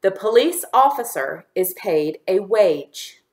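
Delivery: deliberate words with small gaps; dictation for repeating. Shown as a demonstration. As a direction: say it carefully for learners to echo. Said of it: "Repeat after me".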